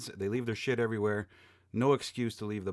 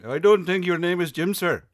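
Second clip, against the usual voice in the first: mock scoffing shout; 8 semitones higher, 10 dB louder than usual. Scoffing at the telemarketer.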